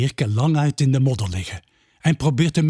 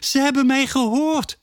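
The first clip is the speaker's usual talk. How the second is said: much higher joyful cheer; 12 semitones higher than usual. A narrator's reading. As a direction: cheer with joy. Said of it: "juicht Ravi".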